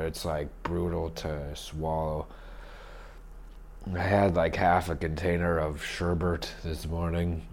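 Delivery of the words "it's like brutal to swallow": rough, scratchy sore throat; gravelly voice. Real, not acted. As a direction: talk through a raw, sandpaper throat. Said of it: "my throat is like sandpaper".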